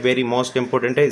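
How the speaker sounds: very most important है spaced out very slowly; teacher underlining an exam point slowly; emphatic slow. Shown as a demonstration. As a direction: lean on every word of very most important.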